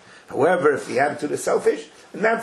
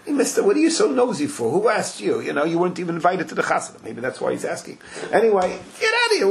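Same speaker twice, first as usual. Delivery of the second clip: higher, mock annoyed brush-off; mock indignant retort; 4 semitones higher than usual. Groom snaps back at the nosy stranger, mock annoyed. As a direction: shoo him away, hammed-up.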